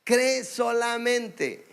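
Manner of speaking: "Cree solamente" said very slowly, each word weighed; slow emphasis. Shown as a demonstration. Preacher repeating the verse to the congregation, slow emphasis. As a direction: let "cree" ring slowly. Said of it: "Dios enfatiza".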